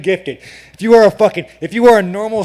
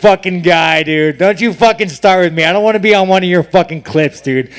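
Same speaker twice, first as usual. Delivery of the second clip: louder mock-angry telling off; playful angry brush-off; 6 dB louder than usual. Real, not acted. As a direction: shout down the heckler with a grin. Brushing off a heckling reporter.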